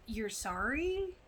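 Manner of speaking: slow, drawn-out disbelief; half-mocking slow "you're sorry?"; incredulous. Real, not acted. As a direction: stretch it out like you can't believe it. Mocking Lucas's apology.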